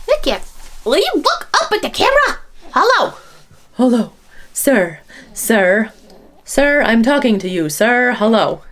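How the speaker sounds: teasing, sing-song mom voice. Real, not acted. Mom talking to her baby.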